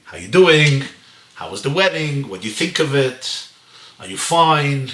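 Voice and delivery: mildly cheerful, kindly small talk; lightly acted friendly check-in; calm, jolly. Wife chatting with her furious husband, calm and jolly. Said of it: "she's very calm and nice and kind and jolly".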